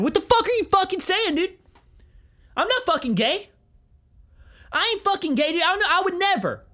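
hammed-up defensive outburst; over-the-top defensive. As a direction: deny it like a flustered rock star. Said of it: "just get dumb defensive".

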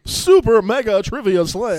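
lightly put-on game show host; Steve impression. Everybody doing their best Steve, lightly imitated. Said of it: "do their best, Steve".

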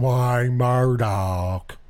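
slow, drawn-out mocking caricature; John Wayne Murdoch. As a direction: stretch the name out in a send-up voice. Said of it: "That's a little higher in the voice".

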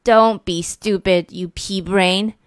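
second monster yelling back an insult; shouted. Acted. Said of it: "shouted the second monster".

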